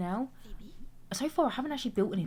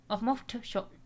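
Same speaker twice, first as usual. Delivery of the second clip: higher, light Northern English voice; put-on Northern English quote; Northern English accent; 4 semitones higher than usual. Shown as a demonstration. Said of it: "I always do Northern".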